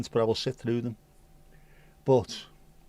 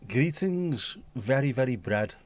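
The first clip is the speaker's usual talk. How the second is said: Joey Boswell; slower than usual. Acted. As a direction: put on a sitcom character's greeting, falling at the end. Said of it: "Very Joey Boswell".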